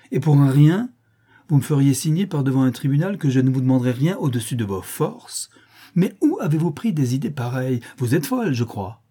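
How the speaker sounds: violent outburst. A narrator's reading. Countess berates her niece over her promise, violent angry outburst. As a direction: burst out in a storm of outraged reproach. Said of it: "L'orage ... éclata tout à coup avec une violence inouïe".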